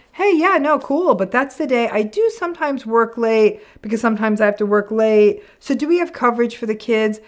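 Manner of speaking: mock casual needling, lightly voiced. Partner questioning her class plans, mildly mock-casual needling. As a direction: pick at her plans while sounding friendly. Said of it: "A sort of needling you".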